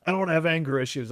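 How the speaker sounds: fast, lightly mocking defensive man; mock denial. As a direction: rattle off the denial quickly. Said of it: "That's my favorite thing with men".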